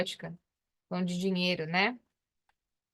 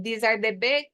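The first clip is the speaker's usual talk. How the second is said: slow repeat; slower than usual. Shown as a demonstration.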